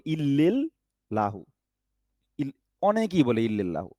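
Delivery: ইল্লিল্লাহু with a short i sound in the middle; the common mistake ইল্লিল্লাহু; wrong illi. Shown as a demonstration. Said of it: "অনেকে বলে". (ভুল উচ্চারণ ইল্লিল্লাহু)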